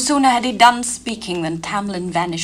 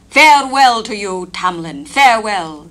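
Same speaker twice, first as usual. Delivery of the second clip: crying farewell; 3 semitones higher, 8 dB louder than usual. Acted. Elf Queen crying farewell to Tamlin, loud. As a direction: call out the farewell. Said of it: "the Elf Queen cried again".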